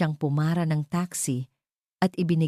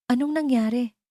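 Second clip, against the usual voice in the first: worried; 9 semitones higher than usual. Acted. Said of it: "puno ng pag-aalala".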